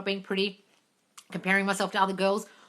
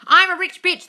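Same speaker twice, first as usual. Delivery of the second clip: loud, high and thrilled; excited; 10 semitones higher, 10 dB louder than usual. Acted. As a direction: shout the title out with glee. Reads book title, then repeats plainly.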